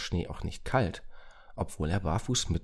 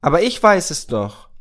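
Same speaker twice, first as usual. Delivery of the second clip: put-on loud, high, excited boy; 11 semitones higher, 12 dB louder than usual. A narrator's reading. Moritz realises he can help with the addresses, very excited. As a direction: burst out with the answer. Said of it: "rief Moritz sehr aufgeregt".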